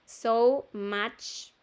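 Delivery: "much" with the U said like Spanish A. Shown as a demonstration. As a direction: model "So much" carefully, "much" as "mach". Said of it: "este U se lee como A". ("So much" con la U de "much" como A)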